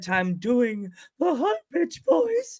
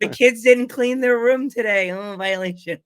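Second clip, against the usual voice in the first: Travis Norbert voice; 3 semitones higher, 5 dB louder, slower than usual. Retold or imitated.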